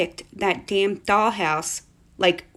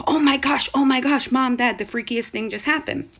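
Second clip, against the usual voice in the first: excited gasp; 4 semitones higher than usual. Retold or imitated. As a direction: burst in breathless with news. Daughter rushes in, frightened.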